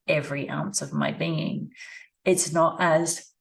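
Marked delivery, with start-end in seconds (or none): 2.2-3.3 talking through a yawn; words stretched by a yawn. Real, not acted. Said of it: "I apologize for my yawning".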